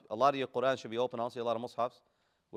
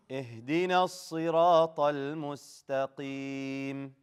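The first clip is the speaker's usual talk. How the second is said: Quran recitation. Shown as a demonstration. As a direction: recite measured, stretching the final vowel. Recites for class to repeat.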